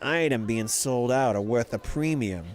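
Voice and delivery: lightly voiced New York Italian trader; a hint of a shady New York Italian dealer's pitch; New York Italian accent. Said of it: "Like, New York Italian accent".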